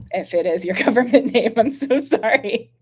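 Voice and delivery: helpless laugh breaking into a sorry; laughing apology. Real, not acted. Streamer apologizing for judging a viewer's name, laughing. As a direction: giggle through the apology, rising in pitch.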